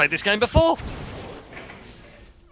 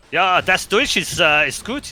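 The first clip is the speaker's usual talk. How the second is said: slow put-on German accent; slower than usual. Shown as a demonstration. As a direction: lay on a thick German accent. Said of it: "my German accent would be much better".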